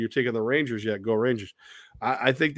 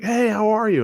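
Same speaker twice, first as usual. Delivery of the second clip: bright, much higher hello; cheery high greeting; 10 semitones higher, 5 dB louder than usual. Retold or imitated. Retelling greeting the fan, a cheery high hello. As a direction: greet her like an old friend.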